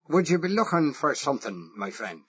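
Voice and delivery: a lightly voiced rough Irish workman; gruff Irish challenge, a hint of brogue. Irish foreman catching a stranger, rough Irish question. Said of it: "a deep, rough, no-nonsense voice, as Irish as a sprig of shamrock".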